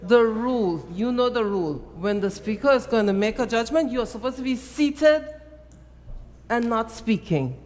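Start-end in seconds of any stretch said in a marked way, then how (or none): 0.0-3.5 firm, raised reprimand; scolding call to order. Real, not acted. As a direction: scold the member into silence. Speaker scolds interrupting member.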